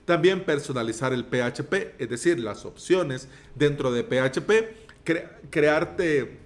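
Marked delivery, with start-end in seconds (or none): 5.0-6.4 stumbling, choking on words; words catch in the throat. Real, not acted. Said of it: "ay, me atraganté".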